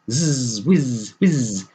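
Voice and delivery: high, peevish buzzing squeak. Acted. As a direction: squeak back like a sulky bee. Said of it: "in a peevish squeak".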